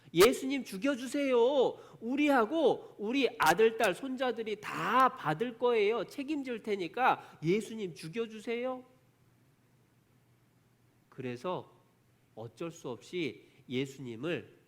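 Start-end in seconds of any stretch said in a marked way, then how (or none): 0.1-8.8 high, loud imitation of a clamouring crowd; crowd crying out. Crowd demanding Jesus be killed, high insistent cry. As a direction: call it out high, pleading with the judge. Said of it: "뭐라고 외치느냐".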